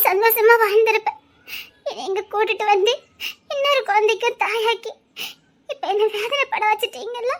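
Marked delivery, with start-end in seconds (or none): 1.9-7.3 softly weeping out her grievance; crying. Acted. Wife weeping at her husband for bringing her sorrow. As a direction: voice dropping into tears. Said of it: "இப்படி மனம் நொந்து அழாத".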